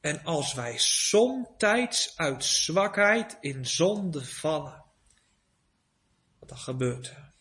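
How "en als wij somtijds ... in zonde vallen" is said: put-on slow, solemn reading of the old baptism form. Preacher reads the baptism form to the congregation, slow and solemn. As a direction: read it out slowly, with reverence. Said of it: "Moet u horen".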